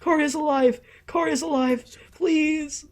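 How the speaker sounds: frantic high-pitched calling out; frantic shouting. Real, not acted. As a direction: yell his name in real alarm. Shouting at Karia on screen.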